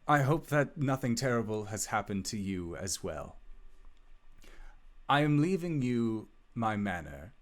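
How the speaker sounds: formal, measured letter reading; lightly dramatic reading of a farewell letter; letter read aloud. Acted. Wizard's last letter to dearest Albus, formal heartfelt reading. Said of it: "it says".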